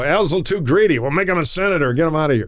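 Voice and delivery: tossing off a greedy guy; mock boss voice. Bosses talking about Al D'Amato.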